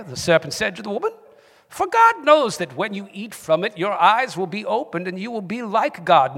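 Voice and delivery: Bible reading in a British accent. Shown as a demonstration. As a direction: read scripture aloud in your best British accent. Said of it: "in your best British accent".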